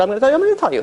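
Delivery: hammed-up, high-pitched insistence; insistent street addict. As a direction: protest rising to a high pitch. Acted addict insisting to a stranger.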